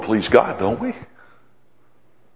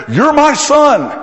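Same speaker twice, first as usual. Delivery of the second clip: voice of God; 5 dB louder, slower than usual. Acted. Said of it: "God showed up and he said".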